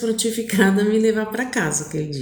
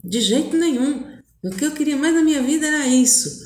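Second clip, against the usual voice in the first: retold earnest denial, higher and quick; eager protest; 5 semitones higher, faster than usual. Boy assuring her he wants to date, eager. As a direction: rush to reassure her, pitch lifted.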